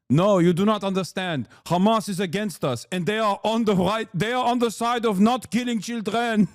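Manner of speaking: lightly hammed-up accented explainer; Israeli official. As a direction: insist earnestly in a put-on accent. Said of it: "they're constantly like".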